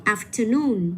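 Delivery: afternoon with NOON stressed and falling; stress on last syllable. Shown as a demonstration. Teacher modelling for a student, afternoon stressed on NOON. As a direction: say afternoon leaning on the final NOON. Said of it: "cái âm tiết có những chữ này luôn".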